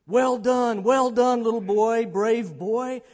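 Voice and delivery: loud, jubilant praise; crying out praise. Acted. Muir praising his dog after the crossing, crying out. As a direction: cry out proudly to a brave dog. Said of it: "I cried".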